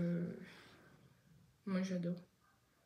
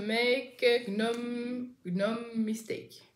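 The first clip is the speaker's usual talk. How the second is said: bad English accent; much slower than usual. Real, not acted. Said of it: "pardon pour l'accent anglais pourri".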